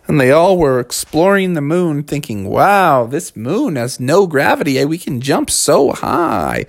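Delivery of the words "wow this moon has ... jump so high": wide-eyed wonder with swooping pitch; mildly amazed kids. Acted. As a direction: stretch out the amazement. Kids marvel at moon.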